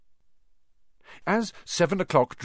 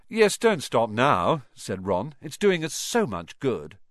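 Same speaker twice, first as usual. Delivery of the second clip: slow, dry sarcasm; sarcastic. Acted. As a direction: drawl it sarcastically. Ron sarcastic to Hermione.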